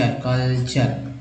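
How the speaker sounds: कल्चर drawn out in two slow parts, कल then चर; syllable by syllable. Shown as a demonstration. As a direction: sound out कल्चर very slowly as कल-चर. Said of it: "टीयूआरई को बोलते हैं चर".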